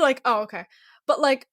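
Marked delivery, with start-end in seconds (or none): 0.3-0.6 deadpan. Retold or imitated. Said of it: "I go from screaming to".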